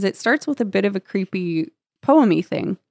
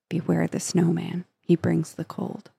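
softly spoken, trailing into quiet; hushed reading; 7 dB quieter than usual. A narrator's reading. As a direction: read it quietly, like a remembered rhyme. Reading mother's remembered whispered rhyme.

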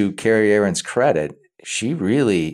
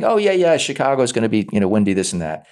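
mock weatherman; 3 semitones higher than usual. Imitating a weatherman.

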